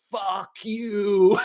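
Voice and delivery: half-shouted, cracking up; laughing mock insult. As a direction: blurt it out through a laugh. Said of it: "looks up at him in the face and says".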